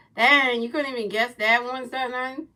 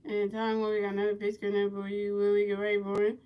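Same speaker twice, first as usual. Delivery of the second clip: play-by-play commentary; 5 dB quieter than usual. Pretend. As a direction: call each pitch softly in a level voice. Resumes play-by-play.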